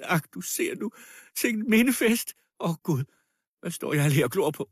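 high, frantic tirade; wild screaming voice. A narrator's reading. Dying widow begging the crowd to defend the girl, wildly. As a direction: wail and rail at everyone, desperate. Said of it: "skreg med vild stemme".

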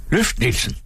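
high, pushing call to lift; mild calling out to a worker; shouted order. A narrator's reading. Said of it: "råbte doktoren". (råbende opfordring)

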